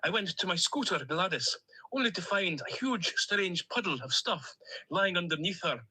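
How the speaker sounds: put-on a duck character with a lightly held Stornoway accent; cheerful Stornoway lilt, a duck on a voice message. Duck on a voice note to his owner, in a Stornoway accent. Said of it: "in my Stornoway accent".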